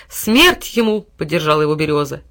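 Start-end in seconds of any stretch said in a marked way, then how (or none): 0.1-1.1 loud call for death; loud cry. A narrator's reading. Birch shouting the verdict. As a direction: shout with the crowd.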